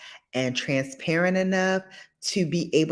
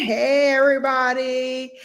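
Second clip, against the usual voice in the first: mock tearful greeting, a touch higher; crying woman voice; 7 semitones higher, 4 dB louder than usual. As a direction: imitate someone weepy greeting everyone. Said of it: "there she is saying".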